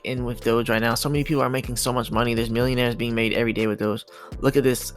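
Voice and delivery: ordinary delivery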